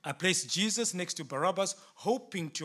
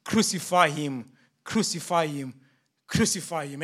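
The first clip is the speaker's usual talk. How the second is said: mob keeps shouting; 2 semitones lower, 4 dB louder than usual. Acted. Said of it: "they continued to shout".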